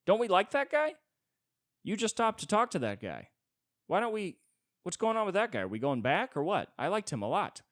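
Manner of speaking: very high, loud pleading dog; whiny dog voice. Acted. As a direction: beg to go back to the guy. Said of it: "the dog's like".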